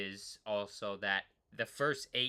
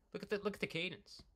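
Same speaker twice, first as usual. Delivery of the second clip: excited; 6 semitones higher, 6 dB quieter, faster than usual. Real, not acted. Thrilled by his own cadence data.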